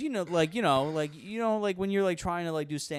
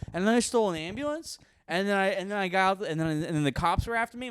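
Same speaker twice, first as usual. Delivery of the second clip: put-on excited kid; 7 semitones higher, 5 dB louder than usual. Kid excitedly telling mom about game.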